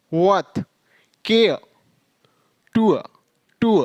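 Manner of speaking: each word held long, "फा" as faa with no r; drawn-out final r. Shown as a demonstration. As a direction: stretch the vowel in "स" and "टू", r melting away. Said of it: "उसे थोड़ा लंबा खींचना होगा".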